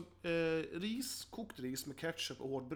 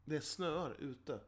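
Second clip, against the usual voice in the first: slow and deliberate, drawn out; slow cliché demo; much slower than usual. Shown as a demonstration. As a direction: spell it out slowly like stating the obvious. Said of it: "Där man säger så här".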